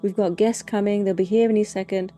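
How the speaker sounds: rapid-fire accusing questions, half-yelled; stressed mother shouting. Retold or imitated. Mother scolding toddler over a smashed glass, shouting. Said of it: "she's just shouting at the child".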